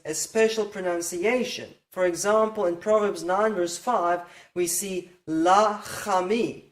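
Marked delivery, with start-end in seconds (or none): 5.3-6.6 la chami said slowly with an extra A after the ch; extra vowel. Shown as a demonstration. Teacher showing the extra vowel in la chami, slow demonstration. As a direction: draw out la chami with an open A after the ch. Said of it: "we have an extra R here".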